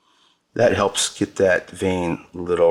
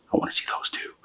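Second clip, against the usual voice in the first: whisper; 5 dB quieter, faster than usual. Real, not acted. Quiet aside to viewers.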